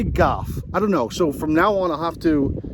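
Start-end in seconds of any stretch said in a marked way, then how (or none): 0.0-0.5 "golf" said like the surname Goff; golf without L. Shown as a demonstration. Showing how he says it, "golf" pronounced "goff". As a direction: drop the L in "golf", saying "goff". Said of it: "I just say golf".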